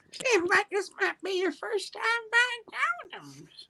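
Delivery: high, slow knowing tone; knowing older lady. Retold or imitated. Older lady teasing the boy about his first condoms. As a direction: draw it out with a knowing tease.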